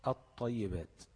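الطيبات as at-tayyibat, without any L; lam merged into ta. Shown as a demonstration. Teacher repeating the merged reading, الطيبات with held ط. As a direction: double and hold the ط in الطيبات. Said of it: "قلبت اللام لطاء وادغمت الطاء".

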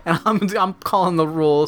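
mock pissed-off, breaking into laughs; Balky. Balky calling the rules on presents, laughing mock anger. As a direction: lay down the law through chuckles. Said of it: "pissed off Balky".

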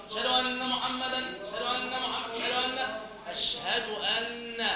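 أن said quickly with no nasal hold; dropped ghunna demo. Shown as a demonstration. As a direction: clip أن short without ghunna. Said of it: "وبعضهم لا يأتي بالغنى أصلًا". (نطق أن بلا غنة)

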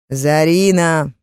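slow, loud yell of a name; ex-fiance yelling for Zara, drawn out. Acted. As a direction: bellow the name from across the room. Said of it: "заорал бывший жених".

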